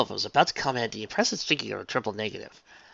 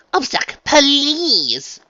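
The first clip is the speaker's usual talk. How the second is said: much higher, louder pleading; exasperated plea; 12 dB louder, much slower than usual. Acted. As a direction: beg her to stop, theatrically.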